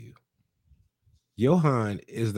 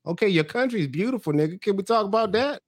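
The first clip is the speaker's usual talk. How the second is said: higher, incredulous protest; hammed-up shocked backpedal; mock disbelief; 9 semitones higher than usual. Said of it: "I was like".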